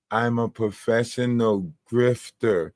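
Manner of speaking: slow, deliberately enunciated mock quote; imitating TikTok woman. TikTok woman answering what her job is, slow imitation. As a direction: spell out each word slowly, imitating her. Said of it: "That's how she say it".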